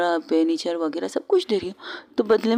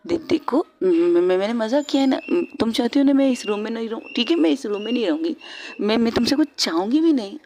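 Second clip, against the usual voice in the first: nervous pleading; 3 semitones higher than usual. Acted. Stammering girl pleading nervously.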